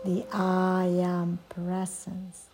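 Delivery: guided meditation, long pauses. Acted. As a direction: lead a yoga nidra, unhurried. Leads a yoga nidra meditation.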